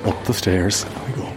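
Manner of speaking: speaking through a face mask; muffled by a mask. Real, not acted. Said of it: "if I sound a little bit muffled".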